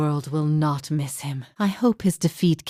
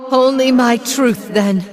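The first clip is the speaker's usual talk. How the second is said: loud, higher, slow final declaration; defiant declaration; 7 semitones higher, 6 dB louder than usual. Acted. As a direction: proclaim it slowly as a last stand. Defiant last words before judgement.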